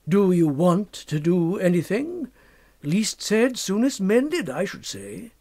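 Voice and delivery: slow, a lightly voiced wry drawl; knowing young doctor. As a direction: sound amused and sly. Narrator voices Macfarlane.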